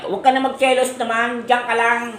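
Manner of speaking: high-pitched pleading scold; chiding. Real, not acted. Telling a jealous pet to stay there, chiding. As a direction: pitch it up in protest.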